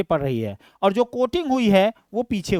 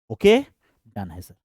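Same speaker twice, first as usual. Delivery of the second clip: voicing a student; 9 semitones lower than usual. Teacher voices student's answer.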